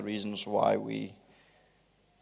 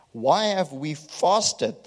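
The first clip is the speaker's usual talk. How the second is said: slow, high, mocking complaint; drawn-out sarcastic whine of mock injury; 5 semitones higher, much slower than usual. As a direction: mimic the people's self-pity. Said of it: "sarcasm in the Hebrew".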